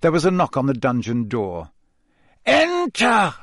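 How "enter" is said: high, loud one-word command; Snape calling out. A narrator's reading. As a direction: call it out imperiously. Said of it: "said Snape in his usual voice".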